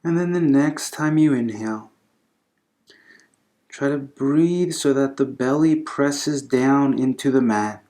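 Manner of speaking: calm, unhurried yoga instruction with long pauses; guided breathing meditation. Acted. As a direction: gently guide them through the breath, leaving space between phrases.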